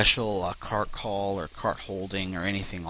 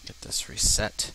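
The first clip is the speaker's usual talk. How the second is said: whisper. Real, not acted. Muttering to himself while playing.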